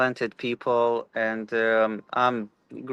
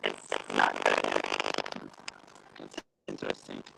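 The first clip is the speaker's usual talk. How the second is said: bad connection; 8 dB quieter than usual. Real, not acted. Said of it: "turn off the camera".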